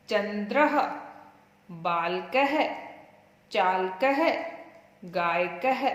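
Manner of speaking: put-on slow, clear recitation for children to repeat; recitation drill. Shown as a demonstration. Teacher leading a class to recite Sanskrit words. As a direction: pronounce each word with its visarga "ह" echo, pausing for repeats. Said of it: "आप भी साथ साथ उच्चारण करें।".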